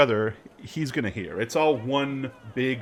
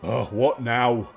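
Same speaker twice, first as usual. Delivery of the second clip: annoyed guard. Acted.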